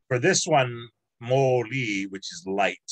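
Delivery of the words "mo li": "mo li" with stress on the o and the i; emphasis on o and i. Shown as a demonstration. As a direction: split it as mo li, both syllables marked. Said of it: "there's emphasis".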